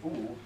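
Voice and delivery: "ooh" held as one long sound; vowel sound demo. Shown as a demonstration. Teacher shows student what the letter pair says, long vowel demo. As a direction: model a drawn-out "ooh" for a learner. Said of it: "you've gotta say".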